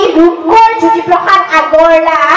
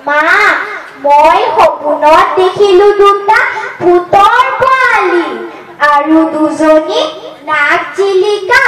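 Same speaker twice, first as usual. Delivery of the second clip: poem recitation. Acted. Child telling mother a dream of little ghosts, sing-song recitation. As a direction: recite it rhythmically, lilting up and falling at each verse end.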